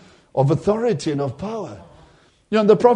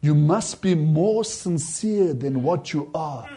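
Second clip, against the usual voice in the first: solemn voice from above; 5 semitones lower, 5 dB quieter, slower than usual. Retold or imitated. Voice from above speaks.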